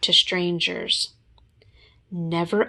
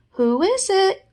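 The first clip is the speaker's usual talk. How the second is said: calling out; 13 semitones higher, 4 dB louder than usual. Acted. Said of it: "called Pooh".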